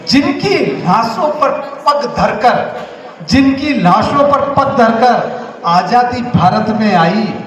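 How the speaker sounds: declaimed verse with drawn-out key phrases; poem recitation. Acted. Restarting the independence poem for listeners, declaimed verse. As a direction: recite it line by line, repeating for weight.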